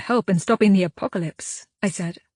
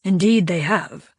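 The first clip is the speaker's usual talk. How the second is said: grumbled; slower than usual. Acted. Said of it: "he grumbled".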